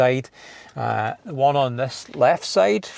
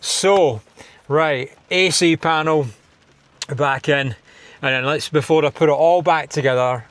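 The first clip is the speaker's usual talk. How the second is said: loud calling out; 2 semitones higher, 5 dB louder than usual. Real, not acted. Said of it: "I've no idea why I'm shouting at you".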